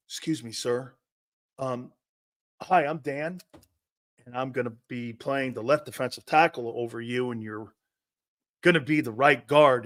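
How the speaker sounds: a hint of an overly polite lineman; meek polite intro. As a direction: play a timid nice guy. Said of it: "this is how Flexen would introduce himself".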